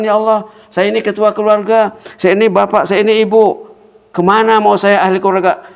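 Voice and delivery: high, loud pleading prayer; mock lament. Preacher voicing a father crying to God, high pleading lament. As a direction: cry out to God in exaggerated despair.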